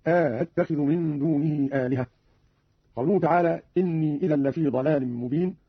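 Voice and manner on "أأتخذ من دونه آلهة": second hamza of أأتخذ softened, with an alif drawn in before it; Qalun reading. Shown as a demonstration. Teacher shows Qalun's reading, أأتخذ with eased second hamza. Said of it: "بتسهيل الهمزة الثانية مع إدخال ألف".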